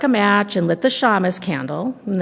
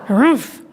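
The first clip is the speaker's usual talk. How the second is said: mock bear grumble; 3 semitones higher, 4 dB louder than usual. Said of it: "growled the old bear".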